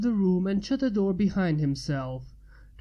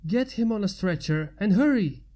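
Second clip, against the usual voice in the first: a louder urgent call to hurry; urgent orders; 2 semitones higher, 4 dB louder than usual. Acted. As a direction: bark the orders, no time to lose. Paramedic giving urgent orders.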